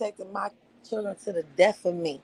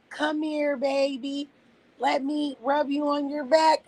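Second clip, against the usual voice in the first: mock soft coddling; 4 semitones higher than usual. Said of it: "I'm not doing all that".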